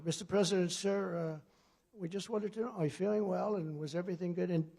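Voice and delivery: mock reporter. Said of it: "he asks, like, a question".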